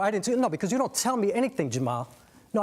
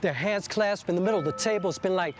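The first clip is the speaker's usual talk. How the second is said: poetic narration. A narrator's reading.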